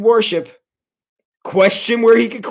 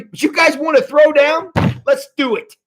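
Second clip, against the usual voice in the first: bring it on; 7 semitones higher than usual. Pretend. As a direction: rise to a fighting dare. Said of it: "and he's like".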